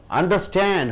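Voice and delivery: Understand, leaning on the final STAND; stress on last syllable. Shown as a demonstration. Teacher giving students an example word, stress on last syllable. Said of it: "When you stress on stand".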